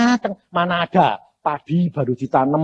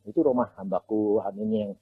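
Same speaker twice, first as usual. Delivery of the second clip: voice of God; 9 semitones lower, 9 dB quieter than usual. Retold or imitated. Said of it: "rumah siapa Tuhan".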